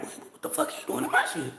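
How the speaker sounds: fast, whispered disbelief; shocked whisper. Retold or imitated. Telling viewers how she reacted to a singer, in a startled whisper. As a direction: hiss it out in shock. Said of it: "I'm like".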